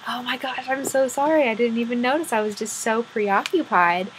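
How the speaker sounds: lightly acted, dismayed apology; a touch of embarrassed dismay; apologetic. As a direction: apologize as if only just realizing. Unicorn apologizes to eyeless fairy.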